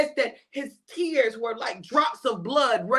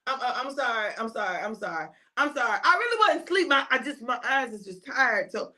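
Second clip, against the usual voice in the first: groggy apologizing. Acted. Disciple startled awake, apologizing.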